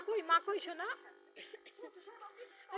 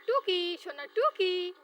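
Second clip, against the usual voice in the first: put-on a bright, louder "টুকি" to catch the baby's eye; playful peekaboo call; 6 dB louder, slower than usual. Mother playing peekaboo with her baby, bright louder call.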